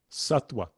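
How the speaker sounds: "sattva" pronounced SUT-wa. Shown as a demonstration. Teacher says think of it as a W, w sound. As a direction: put a plain w in "sattva". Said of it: "just think of it as a W".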